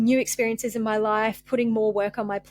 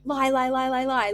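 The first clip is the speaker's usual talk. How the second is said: quick repeated rejection, slightly higher; dismissive inner voice; 3 semitones higher than usual. Retold or imitated. Her guarded mind rejecting praise, dismissive chant. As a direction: brush off every compliment as a lie. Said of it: "And then you're like".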